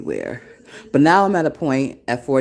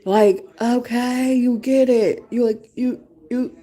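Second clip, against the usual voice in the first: admiring cheer; 9 semitones higher, slower than usual. Acted. Admiring another woman's authenticity.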